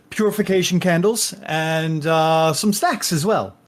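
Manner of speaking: lightly voiced courteous innkeeper; polite innkeeper. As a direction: answer with polished service manners. Innkeeper lists bath extras.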